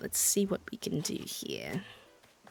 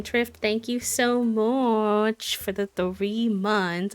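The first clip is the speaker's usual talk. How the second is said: slow put-on British accent; 5 dB louder, much slower than usual. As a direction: thank them in a British accent. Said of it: "Why is the British accent making my voice crack?".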